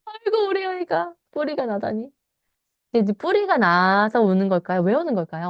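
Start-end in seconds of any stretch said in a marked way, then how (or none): 0.0-2.1 a hammed-up wail from a mother, pitched much higher; mock crying mom. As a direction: play the upset mom lamenting, half-crying. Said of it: "엄마가 울기 시작했어요". (우는 엄마 흉내, 높은 목소리로 한탄)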